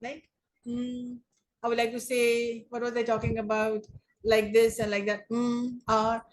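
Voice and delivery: hesitant stalling with hums and fillers; filler-word demo. Shown as a demonstration. Speech coach showing students what to avoid, hesitant filler-laden stalling. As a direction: mimic a speaker groping for words. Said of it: "What are these filler words?".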